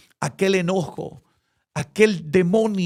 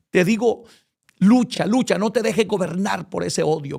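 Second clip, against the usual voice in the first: exhorting; 3 semitones higher, 3 dB louder than usual. Acted. Exhorting congregation.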